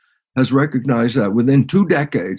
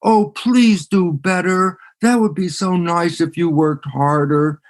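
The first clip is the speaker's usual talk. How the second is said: higher and slow, a mock-gentle coach; 4 semitones higher than usual. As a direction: ask for better, almost begging. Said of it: "The coach doesn't go up and go".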